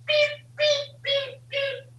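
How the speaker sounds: squeaky toy-car beeps, high up; high playful beeps. Pretend. Parent beeping playfully to a toddler, high and squeaky. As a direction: beep like a toy for the baby.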